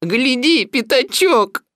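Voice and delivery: high, loud, eager shout; excited call. Acted. Proud donkey calls Piglet to watch, excited. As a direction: call a friend over to look.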